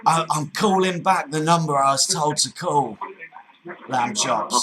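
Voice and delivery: put-on firm Cockney accent, repeating himself; Cockney geezer. Prank caller repeating himself to the agent, Cockney. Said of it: "full-on Cockney geezer".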